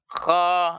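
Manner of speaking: "kha" with thick kh and open mouth; tebal, mulut terbuka. Shown as a demonstration. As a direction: say "kha" with dropped jaw, unrounded lips. ("kha" tebal dengan mulut terbuka)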